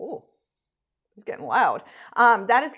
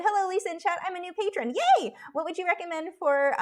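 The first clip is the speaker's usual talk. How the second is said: excited high voice; 9 semitones higher than usual. Real, not acted. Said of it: "my voice just gets all high".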